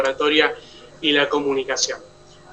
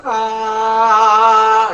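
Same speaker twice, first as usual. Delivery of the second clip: vocal warm-up slide; 4 semitones higher, 3 dB louder than usual. Shown as a demonstration. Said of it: "ir llevando de agudos a graves".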